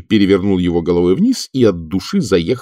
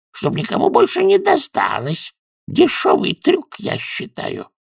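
high-pitched, pointed character voice; high, insinuating grievance; grumbling wizard. Acted.

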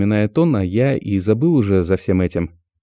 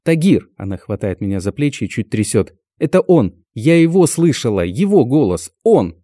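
high, loud frightened pleading; panicked; 4 semitones higher, 3 dB louder than usual. Acted. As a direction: shake him with panicked words. Girl panicking, grabbing Tagir.

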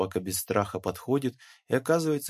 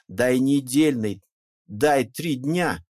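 loud, slow, drawn-out wail; pleading louder, stretching each word; howling roar; 3 semitones higher, 7 dB louder, much slower than usual. A narrator's reading. Pakhom recounting his begging for more time: slow, loud wail. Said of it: "перешёл в какой-то воющий рёв".

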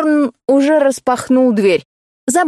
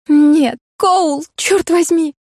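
exasperated protest; 6 semitones higher, much slower than usual. Acted. Heroine stops Cole from calling her friend, high exasperated cry. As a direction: cry out in dismay.

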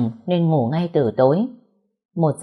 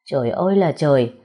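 wailing lament. Acted. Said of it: "vừa la vừa khóc".

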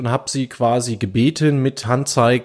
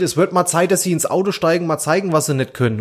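retold yell; 4 semitones higher than usual. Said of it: "hab ich ihm hinterher gebrüllt".

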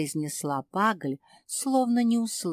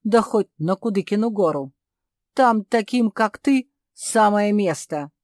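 shouting; 3 semitones higher, 7 dB louder than usual. A narrator's reading. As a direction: hurl the insult after her. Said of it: "кричал тем временем Барбос".

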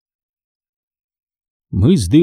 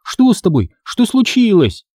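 frightened; 9 semitones higher than usual. Acted. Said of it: "испуганно вскрикнула я".

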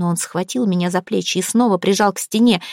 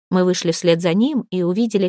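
plain reading voice

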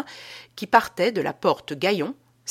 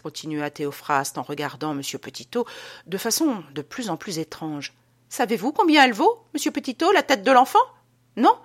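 menacing Théophraste. Acted. Théophraste menaces Petitot about the child's head, ominous. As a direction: lean in, strange and threatening.

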